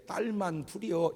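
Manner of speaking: slow, regretful parent's answer; imitating a let-down parent; wistful disappointment. Shown as a demonstration. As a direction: let disappointment seep into the drawn-out words. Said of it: "섭섭함이 그 말 속에 있어요".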